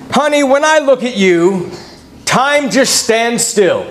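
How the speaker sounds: slow, high-pitched sweet talk; hammed-up tender compliment; acted loving spouse. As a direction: woo your spouse with drawn-out words. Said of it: "Would you rather hear it like that".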